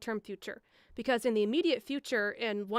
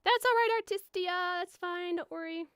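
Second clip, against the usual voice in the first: reassuring; 9 semitones higher than usual. Real, not acted. Reassuring a viewer in chat.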